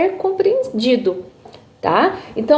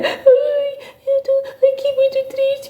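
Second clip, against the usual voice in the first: put-on high, thin whine of a tearful child; crying child; slower than usual. Shown as a demonstration. Teacher imitates a child crying while talking, high tearful whine. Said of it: "uma criança, ela começa a chorar e ela começa a falar".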